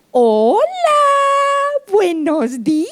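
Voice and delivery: mock high cooing greeting; baby talk to husband. Shown as a demonstration. Wife jokingly greeting her husband in baby talk. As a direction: coo at your husband as if he were a baby. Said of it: "le diga al marido".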